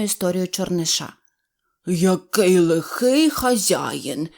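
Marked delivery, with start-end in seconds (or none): 1.9-4.3 goat voice. A narrator's reading. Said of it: "сказав козел Буль".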